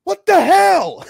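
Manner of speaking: slow, high, loud outraged yell; quoting a shocked bad guy in a loud slow yell. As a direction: belt out a stunned what the hell. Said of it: "And he's like".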